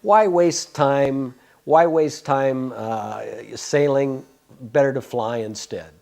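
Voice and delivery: slow, deliberate reading of the letter; reading the reply. Retold or imitated. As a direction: read the guru's note slowly, weighing each word. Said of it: "he wrote back this little short paragraph".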